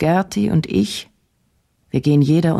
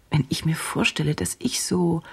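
whisper; 6 dB quieter than usual. Acted. Repeated, fading into whisper.

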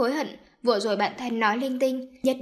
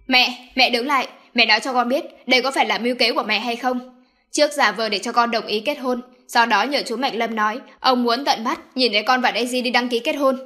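loud, accusing demand; angry confrontation; 6 dB louder than usual. Acted. Son angrily confronting his mother about her scheme. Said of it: "tức giận nhìn bà chằm chằm".

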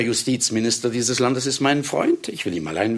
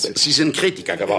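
outraged; 6 semitones higher, 4 dB louder than usual. Acted. Writer outraged at critic.

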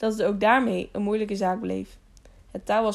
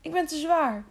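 higher, strained, worried voice; despairing protest while hanging on; anxious stammer; 7 semitones higher than usual. A narrator's reading. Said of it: "stamelde Jaro". (angstig, gespannen)

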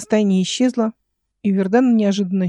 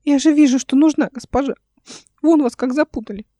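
put-on high, insistent child's voice; piping, eager boyish voice; squeaky boy; 6 semitones higher, 3 dB louder than usual. A narrator's reading. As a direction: protest as a small servant boy. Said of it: "писклявый голос мальчика".

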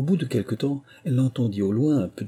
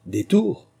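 sharp, high, louder questioning; curt; 12 semitones higher, 5 dB louder than usual. A narrator's reading. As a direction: throw the word back indignantly, pitched high. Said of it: "d'un ton sec".

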